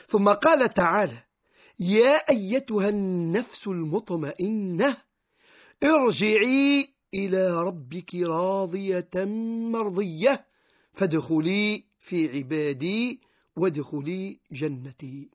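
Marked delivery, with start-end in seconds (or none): 1.8-5.0 slow, drawn-out chanted recitation of the verse; measured Quran chanting, the opening call long and rising; Quranic recitation. Acted. Quran verse recited before explanation. 5.8-15.3 slow, drawn-out chanted recitation of the verse; Quranic recitation. Acted. Quran verse recited before explanation.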